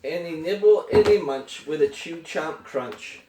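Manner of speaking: lilting picture-book read-aloud, falling at line ends; story narration. A narrator's reading. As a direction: read a bedtime book to a small child. Reads picture book to child.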